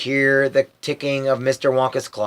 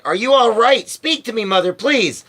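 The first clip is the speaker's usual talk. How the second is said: anxious; 8 semitones higher than usual. A narrator's reading. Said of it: "said Missus Bucket anxiously".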